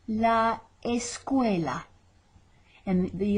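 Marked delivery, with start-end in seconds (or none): 0.1-1.8 La escuela drawn out slowly; slow repeat. Shown as a demonstration. Teacher repeats La escuela slowly for copying. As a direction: stretch La escuela for learners. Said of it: "slow repeat".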